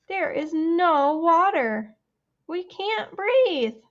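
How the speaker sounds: slow gasping party guests; gasping complaint. Acted. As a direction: plead as if you can't breathe.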